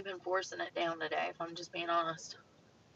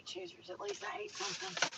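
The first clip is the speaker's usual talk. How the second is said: high, soft sing-song excuse; playful falsetto justification; mock high voice; 10 semitones higher, 9 dB quieter than usual. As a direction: pitch way up, teasing yourself.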